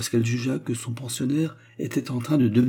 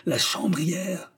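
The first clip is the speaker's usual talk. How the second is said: indignant drawn-out cry; 8 semitones higher, much slower than usual. A narrator's reading. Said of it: "galvanisé par la colère".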